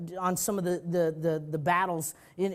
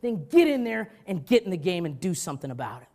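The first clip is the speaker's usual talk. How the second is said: louder, pushy call to act; challenging; 7 dB louder than usual. Acted. Preacher daring critics to act, forceful. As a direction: push them off the couch.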